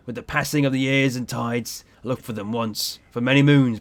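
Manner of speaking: lightly voiced sailor with understated regret; regretful sea captain. Captain mourns his ship in the bar, mildly regretful.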